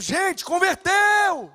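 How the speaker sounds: slow, loud triumphant announcement; drawn-out joyful cry that they converted; excited shout. Retold or imitated. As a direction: shout it out as a proud new preacher.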